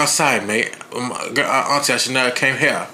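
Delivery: horribly botched put-on accent; amateur mock accent for a gruff-talking character's apology; Butcher's accent, badly faked. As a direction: attempt a foreign accent and miss it. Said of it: "That is a horrible accent".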